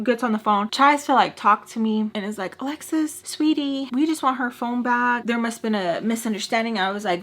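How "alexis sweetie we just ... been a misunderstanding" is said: a hint of a sugary stepmom voice, higher; lightly voiced, coaxing stepmother; sweet stepmom. Stepmom sweet-talking Alexis to get the phone back, lightly sugary.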